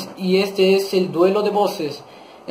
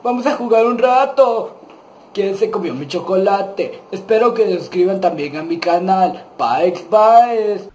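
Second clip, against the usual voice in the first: lightly voiced dim cartoon buddy; Patricio Estrella. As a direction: greet little friends like a simple starfish. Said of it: "yo soy Patricio Estrella".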